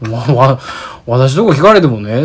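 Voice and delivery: loud, stammering fluster; mock flustered complaint. Flustered staff complaining loudly to callers. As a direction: act swamped by endless questions. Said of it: "っつって".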